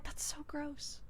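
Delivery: hushed, disgusted aside; grossed out. Retold or imitated. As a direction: barely voice it, recoiling. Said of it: "And I was like".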